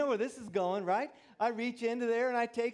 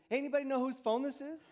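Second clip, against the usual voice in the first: sly joke; 5 semitones higher, faster than usual. Retold or imitated. Man jokes to gym crowd.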